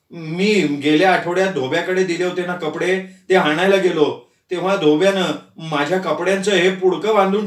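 calmly. Acted. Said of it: "Avadhoot शांतपणे म्हणाला".

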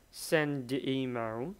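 slow, join send and the smoothly; teacher repeating the linked d in Send the email; linked d sound. Shown as a demonstration. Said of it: "D, d".

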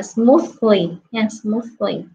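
"smoothly" said slowly and clearly; model word. Shown as a demonstration. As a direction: pronounce "smoothly" carefully, like a teacher. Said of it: "mình sẽ đọc là".

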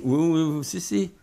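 playing the sure-of-himself interrogator; insistent officer. German officer insists to captured pilot, mock insistent. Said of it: "Il dit".

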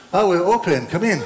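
mock-eager shopkeeper welcoming the buyer in; eager reopening. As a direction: flip from closed to eager welcome, a French accent hint absent. Shop suddenly reopens for buyer.

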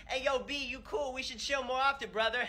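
put-on casual teen coworker. Coworker saying goodbye.

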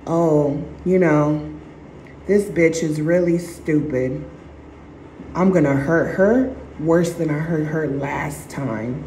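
low, cold narcissist's scorn; a lightly voiced scornful abuser; sneering inner voice. Narcissist sneering at the victim, low and cold. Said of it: "thinking to themselves".

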